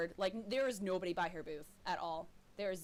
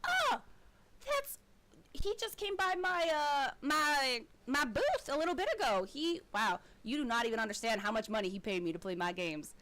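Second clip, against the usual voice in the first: gushing halfling; 3 semitones higher, 3 dB louder than usual. Acted. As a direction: gush about him, pitched way up. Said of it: "and she's like".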